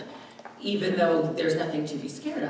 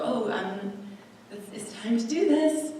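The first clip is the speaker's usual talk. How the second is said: much higher, sweetened mock-cheerful voice; sudden upbeat switch; 5 semitones higher than usual. Caregiver forcing cheer for her mother, high and sweet. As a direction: flip into a sugary upbeat tone. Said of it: "all of a sudden go".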